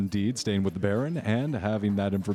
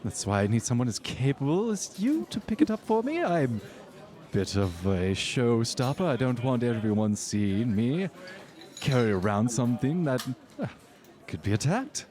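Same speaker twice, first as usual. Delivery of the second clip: socialite voice; 3 semitones higher than usual. Acted.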